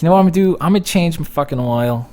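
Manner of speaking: rally yourself like a hero; fired-up resolve. Retold or imitated. To himself about doing his own oil, pumped-up boast. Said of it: "I was like".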